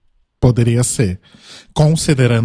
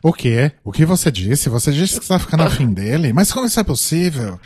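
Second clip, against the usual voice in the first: anime drama; 4 semitones higher, faster than usual. Pretend. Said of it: "fazendo o momento Cavaleiros do Zodíaco dele".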